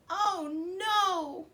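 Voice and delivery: high, loud wail of dismay; wailing princess. Acted. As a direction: cry out like a girl who lost her treasure. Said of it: "wailed the princess".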